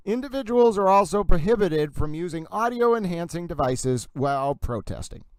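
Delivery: deliberate Massachusetts accent on the street names. Shown as a demonstration. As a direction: read the order out with a Massachusetts accent. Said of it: "that was a pretty good, um, reading".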